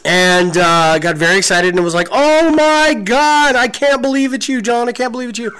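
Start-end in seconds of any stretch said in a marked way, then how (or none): 2.1-5.6 put-on squealing like a little girl. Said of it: "I started squealing like a little girl".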